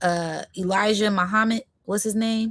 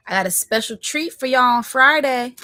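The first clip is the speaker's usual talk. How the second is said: excited tease; 4 semitones higher, 5 dB louder than usual. Real, not acted. Teasing a special treat.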